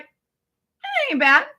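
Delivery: very high, drawn-out hedging; hesitant verdict. Retold or imitated. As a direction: stretch it out high and tentative. Acts out her tasting verdict.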